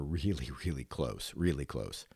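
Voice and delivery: quiet and near tears; saying how close they were, barely audible and choked up; choked-up hush. Real, not acted. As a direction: voice sinks almost to nothing, really close. Grief over grandma, voice dropping.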